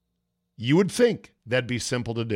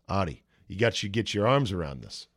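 low, softer mob-boss advice; a lightly imitated boss, pitched down; Tony Soprano; 4 semitones lower, 4 dB quieter than usual. Mob boss advising his restaurateur friend, lightly imitated low voice. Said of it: "Tony Soprano's like".

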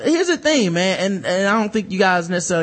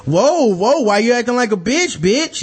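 mock taunting dude; 3 semitones higher than usual. A man taunting a woman who objected, in a mock sneer. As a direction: toss the insult back with a sneer. Mocking man voiced in argument.

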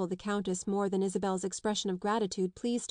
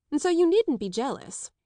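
higher, louder playful teasing; humorous; 7 semitones higher, 5 dB louder than usual. A narrator's reading. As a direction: toss it off with a wink. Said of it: "the Countess added humorously".

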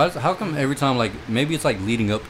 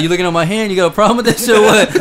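raised, high-pitched challenge; hammed-up aggressive demand; mock confrontation; 9 semitones higher, 6 dB louder, faster than usual. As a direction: play-act picking a fight over a stare. Acts out going off on him.

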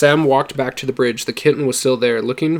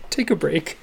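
much higher and louder, laughing; laughing disbelief; 11 semitones higher, 8 dB louder than usual. Real, not acted. Reader laughing at the book to the listeners, loud and high. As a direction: blurt it out through laughter.

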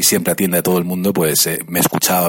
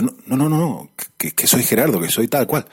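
playful put-on Argentine accent, a touch higher; 4 semitones higher than usual. Caller insists he's Gerardo, in a mock Argentine accent. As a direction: prankster faking an Argentine caller. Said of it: "haciéndome pasar por un tipo que se llamaba Gerardo, que era argentino".

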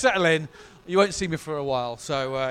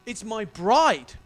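musing Jesus; 4 dB louder than usual. Retold or imitated. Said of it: "for Jesus to say".

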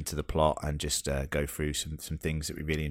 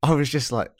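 louder and higher, building to the punchline; telling it with rising glee; amazed retelling of nan's answer; excited; 9 semitones higher, 6 dB louder than usual. Real, not acted. Reacting to fifty years.

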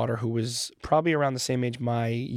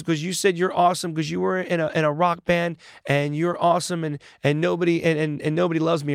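put-on higher-pitched retelling of an upset child; a touch of a child's upset; 4 semitones higher than usual. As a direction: lightly mimic a hurt little girl. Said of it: "She was very upset".

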